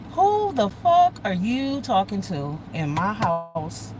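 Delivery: slow, stretched-out confrontation; retold indignant demand, drawn out. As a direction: challenge him word by word, slowly. Acting out mother confronting her son.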